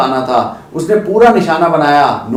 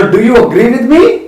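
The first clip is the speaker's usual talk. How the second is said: slow question, higher and louder; 5 semitones higher, 4 dB louder, much slower than usual. Shown as a demonstration. Teacher slowly asking viewers a question. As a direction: ask the class slowly, pitched up. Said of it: "teacher asks viewers slowly".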